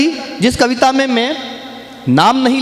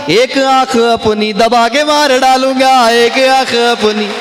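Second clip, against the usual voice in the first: slow, drawn-out poetic declamation; kavi sammelan recitation; 3 semitones higher, slower than usual. Acted. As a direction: recite each line with relish, stretching the words. Recites satirical poem to audience. (मंच पर कविता पाठ का धीमा, खिंचा हुआ अंदाज़)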